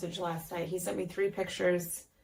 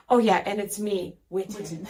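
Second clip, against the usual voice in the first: put-on louder, proud little boy; kid signing off; 5 dB louder than usual. Boy dictating a text, proudly adding his name. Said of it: "He was like".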